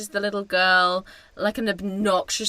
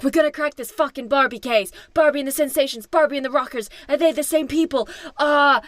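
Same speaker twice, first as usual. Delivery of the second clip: mock conspiracy theorist; 5 semitones higher, faster than usual. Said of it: "And they're like".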